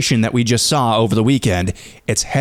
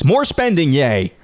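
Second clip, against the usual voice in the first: sarcastic; 2 semitones higher than usual. Acted. Host reading a listener's comment on more spending, sarcastically. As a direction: read it as sarcastic enthusiasm. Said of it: "I sense a little sarcasm there".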